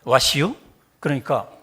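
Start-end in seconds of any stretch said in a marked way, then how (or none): 0.0-0.5 lightly voiced Chungcheong drawl; a hint of Chungcheong dialect; Chungcheong barber. Barber greeting an American customer in mild Chungcheong dialect. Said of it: "충청도 이발사가".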